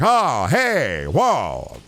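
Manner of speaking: high, loud swooping exclamations; Germa. Acted. Streamer begged by chat for an impression, exaggerated swooping impression. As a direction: throw out jumpy, put-on cries. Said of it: "a Germa impression".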